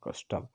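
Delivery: कस्टम with weight on कस, टम cut short; कस्टम, first syllable stressed, second very brief. Shown as a demonstration. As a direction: lean on कस in कस्टम, finish टम quickly. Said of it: "इस पे थोड़ा सा हमें जोर देकर बोलना पड़ा".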